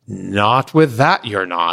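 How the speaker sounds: slow, firm refusal; curt boss. Retold or imitated. Boss refuses his mismatched luggage, slow and firm. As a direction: put your foot down, slowly. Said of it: "she goes".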